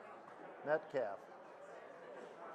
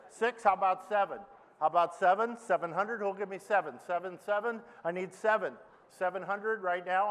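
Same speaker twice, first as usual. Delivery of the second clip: auctioneer. Acted. Auctioneer bid calling.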